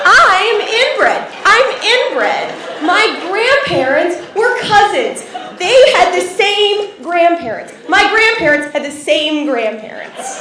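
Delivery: high, loud comic outcry; horrified realization. Acted. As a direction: wail the family scandal in mock horror, slowing as it sinks in.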